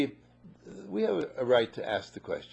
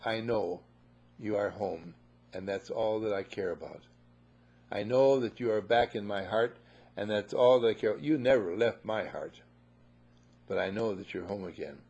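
tender father; 4 semitones lower than usual. Acted. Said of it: "The father says".

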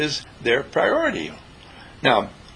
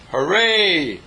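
mock cheer; 3 semitones higher, slower than usual. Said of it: "they shout".

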